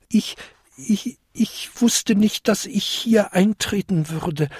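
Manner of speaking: hohes, stockendes Koboldstimmchen; stammelnd. A narrator's reading. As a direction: stammle eine verlegene Ausrede. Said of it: "stammelte der kleinste Winterkobold". (verlegen gestammelt)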